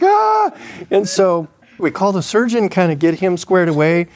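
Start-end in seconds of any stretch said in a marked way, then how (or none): 0.0-0.5 short high-pitched "ah"; comic yelp of alarm; mock alarmed cry. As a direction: mimic a startled little scream. His retold reaction to the craziness.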